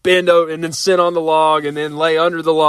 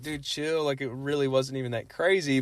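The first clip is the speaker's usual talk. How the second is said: inner voice; 12 dB quieter than usual. Retold or imitated. Ben telling his cheering friends to chill, softly to himself. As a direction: say it under your breath to yourself. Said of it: "in my head".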